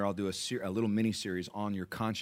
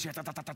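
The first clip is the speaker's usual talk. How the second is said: soft, rattled-off "ta-ta-ta" babble; motor-mouth chatter imitation; 5 semitones higher, 8 dB quieter, faster than usual. Pastor mimics the motor-mouth fan under the tent, chattering. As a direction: mimic endless talking in nonsense syllables. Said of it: "someone who's motor mouth".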